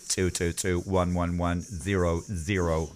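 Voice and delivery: slow, even robot number chant; robot laugh. Pretend. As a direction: recite the digits like a toy robot. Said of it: "That's how I laugh".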